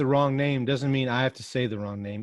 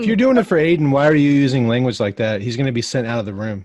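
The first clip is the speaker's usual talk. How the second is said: scolding; 2 semitones lower, 5 dB louder than usual. Real, not acted. Scolding about language.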